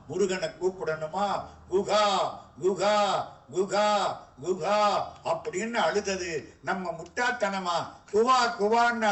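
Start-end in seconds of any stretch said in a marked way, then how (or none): 1.7-4.8 put-on a baby calling out குகா for help; calling out loud. 8.1-9.1 mock baby cry. Baby crying sound.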